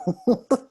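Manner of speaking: short amused laugh. Real, not acted. Host joking with group about cold treats, amused laugh.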